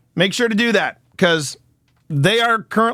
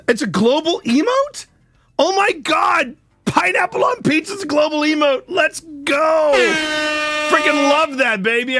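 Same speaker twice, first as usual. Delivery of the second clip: higher excited yell; thrilled shout; 8 semitones higher than usual. Real, not acted. Streamer thrilled about a pineapple emote, high excited shout. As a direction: squeal it with delight.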